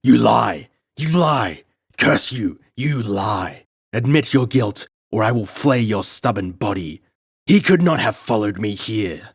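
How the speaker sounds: raving shriek. Acted. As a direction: rave like a madman.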